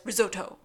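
risotto imitated with a hard T; "risotto" with the T sounded hard; hard-T pronunciation. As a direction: say "risotto" with a firm, crisp T. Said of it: "with a very hard T".

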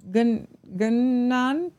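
slow, halting Gun-, Gunnan, syllable by syllable; sounding it out. Real, not acted. Host stumbling over a French town name, slow and halting. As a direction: spell out "Gunnan" haltingly, testing each sound.

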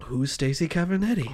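blank puzzlement. Acted. Druggist blankly replies after pause.

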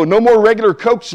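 comic acted-out dismay; dismayed pleading. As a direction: plead for each treat in turn. Retold dismay at forbidden foods.

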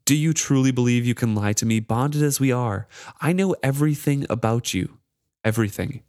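a spiteful charm relishing his torment; cruel mocking charm.

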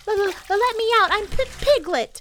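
high, loud, panicky little squeal; stammering cry. A narrator's reading. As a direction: beg to be released, stuttering. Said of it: "cried Piglet".

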